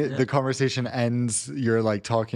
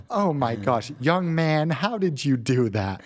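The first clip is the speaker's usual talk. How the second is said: lightly amazed American tourist; a touch of gushing American, drawn out at the end; American accent; 3 semitones higher, slower than usual. Acted. American tourist asking a young passenger his trick, mildly gushing American. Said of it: "the way that Americans talk to everyone".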